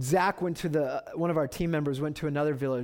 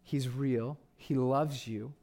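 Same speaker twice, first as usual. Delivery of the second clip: tender appeal; 4 dB quieter than usual. Real, not acted. Preacher assuring the congregation God loves them, softly. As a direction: speak gently, straight to them.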